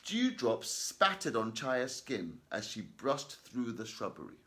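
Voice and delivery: slow, deliberate reading aloud; careful classroom read-aloud; slow, loud and clear reading. Shown as a demonstration. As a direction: read each word slowly and clearly. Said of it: "I'll repeat that".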